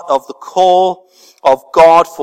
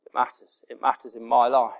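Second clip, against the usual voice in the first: breathy whisper of it matters; a soft whispered echo; 4 semitones lower, 10 dB quieter than usual. Acted. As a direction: hush it to a whisper. Repeated, now whispered.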